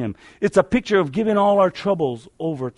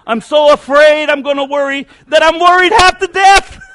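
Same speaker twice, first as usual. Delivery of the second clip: comic recited rhyme; 8 semitones higher, 8 dB louder than usual. Retold or imitated. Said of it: "Someone said it like this".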